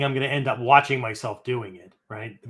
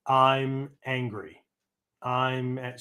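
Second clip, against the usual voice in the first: slow listening repetition; 3 dB quieter, much slower than usual. Shown as a demonstration. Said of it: "start listening to the words".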